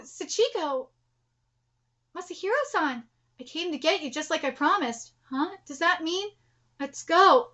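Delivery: very soft, gentle voice; hushed reunion. Acted. Late husband come to get her, hushed and soft.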